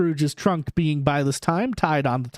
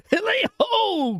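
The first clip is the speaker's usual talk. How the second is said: much higher, slow jolly whoop; Fezziwig's cry; slower than usual. A narrator's reading. Fezziwig crying out to start the party, jolly. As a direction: whoop like a merry old master. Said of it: "cried old Fezziwig".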